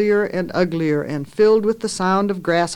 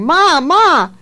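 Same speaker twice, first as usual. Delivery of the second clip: put-on high, loud, near-tearful child's wail; shouting, almost crying; 10 semitones higher, 7 dB louder than usual. A narrator's reading. Little girl wailing for her mother, near tears. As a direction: call out on the edge of tears. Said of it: "Carrie shouted, almost crying".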